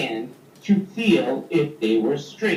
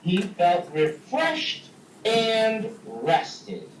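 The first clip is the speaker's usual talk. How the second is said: lively read-aloud story voice, big pitch swings; storytelling for kids. A narrator's reading. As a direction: tell it like a picture book to a class. Reads story to children.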